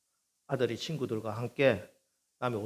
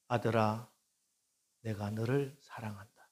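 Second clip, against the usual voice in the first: gentle voice of the Lord; 2 semitones lower, 3 dB quieter than usual. Acted. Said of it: "주님의 음성이 들립니다".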